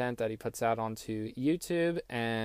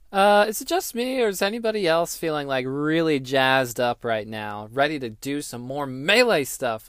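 excited; 3 semitones higher, 4 dB louder than usual. Real, not acted. Host hypes up after transition.

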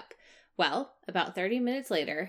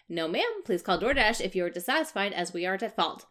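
customer service voice. Retold or imitated. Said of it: "I keep my chirpy customer service voice".

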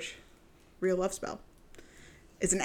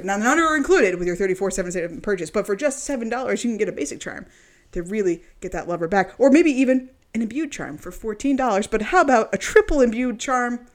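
salesman pitch. Acted. Sales pitch for spell prices.

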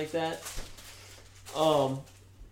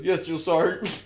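laughing yes sir; 3 semitones higher than usual. Retold or imitated. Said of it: "And he goes".

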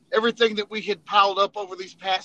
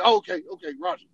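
higher, louder easy acceptance; accepting inspector; 7 semitones higher, 4 dB louder, faster than usual. Retold or imitated. Inspector accepting the lie with a louder higher voice. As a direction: shrug it off like a satisfied sergeant. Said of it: "they'd be like".

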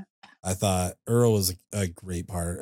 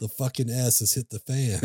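raised-pitch imitation of exasperation; mock frustration; 4 semitones higher than usual. Dad avoiding swear words near his daughter, mock frustrated. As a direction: act fed up, half-laughing quote. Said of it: "gets so frustrated".

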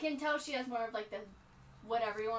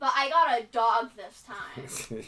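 slow, emphatic, louder insistence; insistent protest; 6 dB louder, slower than usual. Real, not acted. Daughter insisting to her dad that this time it was a dog. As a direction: lean on every word to win the argument.

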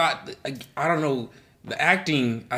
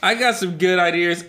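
laughing; 6 semitones higher, 4 dB louder than usual. Real, not acted. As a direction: still laughing while talking. Laughing after friend's reaction.

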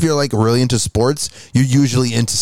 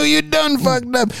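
mock scolding; slower than usual. Teasing cohost's flubbed line.

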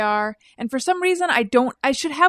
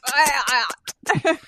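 disgusted shudder; 3 semitones higher, 3 dB quieter than usual. Retold or imitated. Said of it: "my whole body went".

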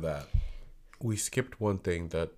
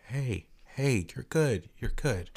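soothing; 4 semitones higher, much slower than usual. Retold or imitated. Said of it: "I was like".

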